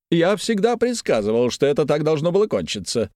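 high, smug know-it-all; high smug I-told-you-so; pompous gloating. Acted. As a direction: crow that he always knew.

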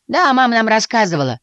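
высокий громкий детский голосок; загалдеть тонко и напористо; галдящие мышата. A narrator's reading. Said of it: "снова загалдели все". (мышата шумно перебивают котёнка)

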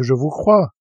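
a light touch of irony; understated ironic agreement; slightly ironic. A narrator's reading. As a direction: say you believe him, half teasing. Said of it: "d'un ton un peu ironique".

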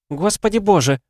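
shocked exclamation. Acted. Helen hearing the supposedly dead Diana, crying out in shock. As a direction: gasp it out as if seeing a ghost. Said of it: "воскликнула Хелен".

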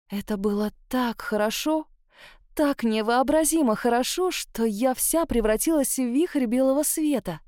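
ordinary delivery, nothing marked

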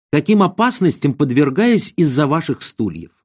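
animated scolding schemer with lifted pitch; theatrical reproach, contrasting their failings with your feats; admonishing. Acted. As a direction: lecture a meek partner, lightly indignant and self-righteous. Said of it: "технический директор вразумлял покорного кису".

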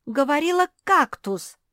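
high, loud protest; objecting. A narrator's reading. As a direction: insist you heard right. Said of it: "начала возражать".

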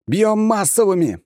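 drawn-out battle howl, high and loud; howling shout. Acted. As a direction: howl the order across the fight. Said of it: "взвыл я".

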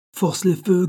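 high, urgent order; shouted command. A narrator's reading. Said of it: "cria l'ingénieur".

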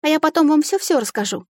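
a touch of sobbing through the promise. A narrator's reading. Heroine pleading with the fairy, lightly tearful. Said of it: "всхлипнула я".

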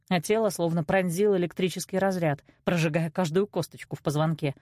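plain reading voice

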